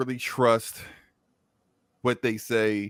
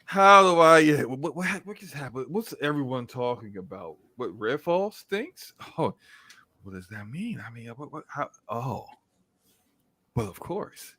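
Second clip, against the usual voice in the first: mock confused writer. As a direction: fumble as the lost writer. The speaker confused in skit.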